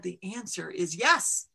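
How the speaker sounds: a recarved mountain giving its first yes; slow mountain voice. Acted. The mountain answering Ma.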